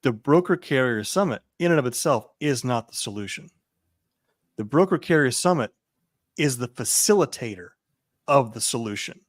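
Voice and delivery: measured phrases with deliberate pauses; careful, deliberate statement; very specific. Real, not acted. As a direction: spell out the point phrase by phrase. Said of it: "say this very specifically".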